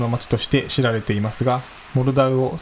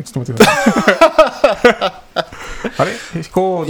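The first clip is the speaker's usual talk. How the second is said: flustered stall; 8 semitones higher, 7 dB louder than usual. Real, not acted. Flustered, figuring out the map.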